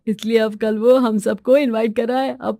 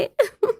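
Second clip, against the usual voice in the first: giggle; 11 semitones higher than usual. Acted. Wife finishes her teasing song.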